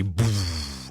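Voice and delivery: long falling whoosh of a boom; imitated sonic thud. DJ stop then sudden thud, imitated boom. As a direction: mouth a big bass drop. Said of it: "a big sonic thud comes in".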